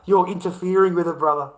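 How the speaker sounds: loud half-laughing mock scolding; mock stern cop. Cop scolding a street preacher for interfering, loud mock. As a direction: bark it like a cop moving a busker on.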